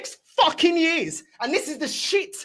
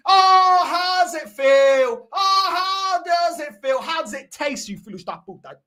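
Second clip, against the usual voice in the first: slow mocking taunt; 4 dB louder, slower than usual. Taunting critics.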